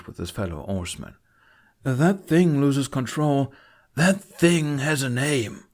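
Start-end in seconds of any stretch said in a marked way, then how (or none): 1.8-5.6 angry. Acted. Angry argument over dragon.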